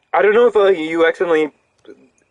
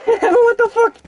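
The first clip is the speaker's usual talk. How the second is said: shocked laugh; 4 dB louder, slower than usual. Real, not acted. Dogs attack in game.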